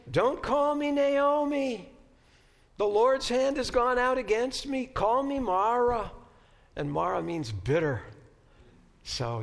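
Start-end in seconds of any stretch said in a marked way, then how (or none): 0.1-6.1 put-on Jewish accent. A Jewish-accented Naomi crying out to the townspeople in a loud, bitter voice. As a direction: declaim it in a heavy Jewish accent. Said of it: "this is my best Jewish accent".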